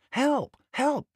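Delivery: high panicked Help!; cry for help. A narrator's reading. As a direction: call out high as he slips. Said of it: "said Thomas".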